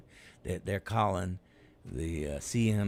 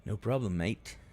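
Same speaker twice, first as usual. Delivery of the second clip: put-on British accent; 3 semitones higher, 3 dB louder than usual. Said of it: "talk in a British accent".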